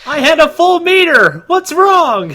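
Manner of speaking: a gamer squealing that his special move failed; squeaky game outrage. Acted. Friend voices a frustrated gamer.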